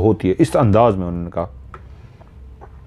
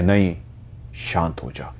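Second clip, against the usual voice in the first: much softer and lower, calming her down; soothing hush; 4 semitones lower, 9 dB quieter than usual. Retold or imitated. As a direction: gently hush an angry daughter. Mother calming her daughter. (माँ गुस्से में बेटी को बहुत धीमे और प्यार से शांत करती है)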